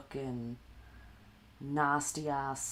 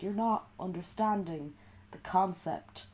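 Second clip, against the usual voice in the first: mock Jaron; 4 semitones higher than usual. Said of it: "He'd be like".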